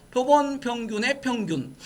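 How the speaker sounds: slow, drawn-out reading for repeating; deliberate read-along delivery; read-aloud model. Shown as a demonstration. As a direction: lead the class in reading it slowly. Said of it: "소리내서 한번 읽어봐".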